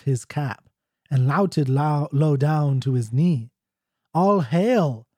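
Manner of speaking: measured recitation with pauses between lines; deliberate, formal verse reading; traditional ballad reading. Acted. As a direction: read an old Scots ballad aloud, line by line. Reads the ballad aloud.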